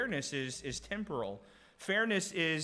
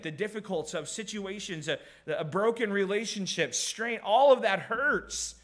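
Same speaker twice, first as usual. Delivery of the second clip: rising preaching; 4 semitones higher, 4 dB louder than usual. Real, not acted. Preaching climax on pain.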